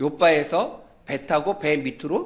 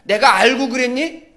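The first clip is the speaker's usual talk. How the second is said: higher, louder indignant comeback; snappy retort; 6 semitones higher, 7 dB louder than usual. Retold or imitated. Child snaps back at the kid shouting at him, indignant. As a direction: throw it back like a defensive kid. Kids quarrel at playground.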